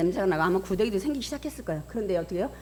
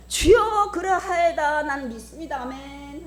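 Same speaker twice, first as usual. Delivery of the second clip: mock pious confession; 7 semitones higher, slower than usual. Mimicking Martha's lip-only confession. (과장된 신앙 고백 흉내)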